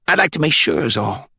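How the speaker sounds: high Glades country voice; country accent from the Glades. A narrator's reading. Caller explaining himself to the judge, high country accent. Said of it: "With that country accent".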